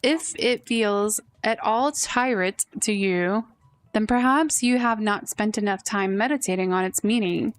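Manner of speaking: lightly voiced lofty sage, unhurried; a hint of a pompous sage offering advice; wise old sage. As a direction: dispense wisdom like a grand old mentor. Sage tea guest gives advice.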